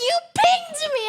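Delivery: hammed-up wounded teammate; imitating an upset jungler; mock indignant. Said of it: "He's like".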